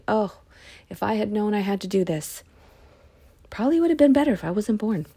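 a prophet half-joking about his burden; rueful sigh. Shown as a demonstration. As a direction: say it as an exasperated sigh of regret. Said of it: "He's just saying".

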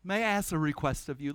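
quick, mildly courteous ask; super polite. Retold or imitated. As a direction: keep it light and polite. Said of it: "super polite".

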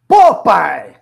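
complaining shout; mock son's whiny yell at dad; son's protest. Son yelling at his father over the wrong phone, complaining. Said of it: "meu filho ... fala assim".

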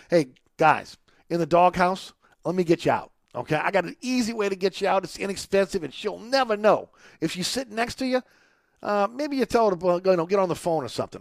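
upbeat radio pitchman read; energetic host ad read; live ad read. Acted. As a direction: sell it to the guys listening.

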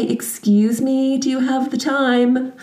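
drawn-out mock politeness to shame a rude kid; a teacher at the park rebuking a kid with sarcasm; sarcastic teacher. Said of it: "we say".

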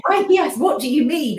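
loud, high retold outrage; indignant retort. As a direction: demand an explanation, re-enacting your disbelief. Retelling her outrage at the headmaster.

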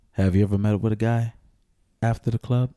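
low, measured public-service announcer; PSA voice. Shown as a demonstration. Man addressing the ladies, mock PSA voice. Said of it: "Let me get my P S A voice on".

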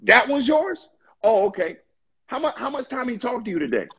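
mocking Satan. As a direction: taunt like Satan, then rush the question. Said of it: "hear Satan going to God and say".

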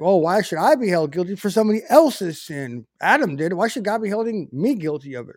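lightly voiced objector, livelier and lilting; a hint of a protesting skeptic; mock atheist complaint. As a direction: imitate an indignant objection, lightly. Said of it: "you hear the atheists talk about".

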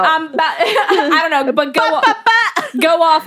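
drawn-out words broken by laughter; slow, amused, giggling through it; laughing. Real, not acted. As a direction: tease while trying not to laugh. Laughing while teasing a friend.

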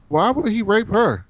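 high, shocked why; indignant question. Retold or imitated. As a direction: demand it in disbelief. Daenerys confronting Jon about brother.

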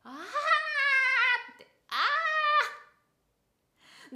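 tight, strained high "ah"; throat-squeezed note. Shown as a demonstration. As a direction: clamp the throat and push. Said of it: "喉に力を入れる癖".

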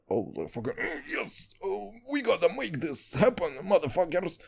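a hint of Russian heavy; thick Russian accent. As Boris the Russian crew boss hyping his heist crew, thick Russian accent. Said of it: "I'm gonna have such a thick accent".

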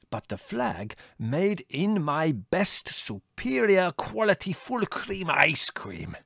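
slow, soaring proud vision; triumphant. A narrator's reading. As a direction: build to triumph. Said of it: "he said triumphantly".

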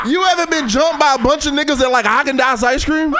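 loud laughing yell; big laughing bellow; laughing shout. Real, not acted. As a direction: shout the joke through laughter.

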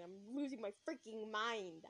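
slow, drawn-out complaint; slow exasperation. Real, not acted. Narrator commenting on her state, slow exasperation. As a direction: draw out each word, losing patience. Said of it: "I sound like a child".

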